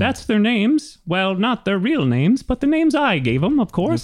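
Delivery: high-pitched gnome explaining himself; oblivious old gnome. Acted. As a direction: chatter high, pleased to clarify as the gnome. Gnome explains the ogres' names.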